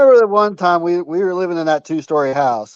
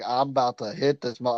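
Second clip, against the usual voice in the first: menacing threat; 6 semitones lower, 10 dB quieter than usual. Retold or imitated. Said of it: "you gave me that look like".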